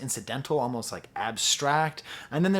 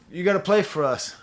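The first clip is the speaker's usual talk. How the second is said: high, louder playful request; pretend calling out; 5 semitones higher, 6 dB louder than usual. Bandleader asking saxophonist to play, calling out. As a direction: call over to the musician, mock-eager.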